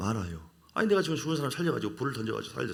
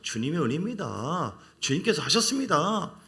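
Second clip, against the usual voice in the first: sincere confession; 4 semitones higher, 3 dB louder than usual. Shown as a demonstration. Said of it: "진심으로".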